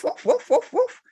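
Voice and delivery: high yappy puppy woofs; playful imitated puppy yaps; puppy barking. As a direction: bark like a naughty little puppy. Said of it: "naughty puppy will kick off and will woof".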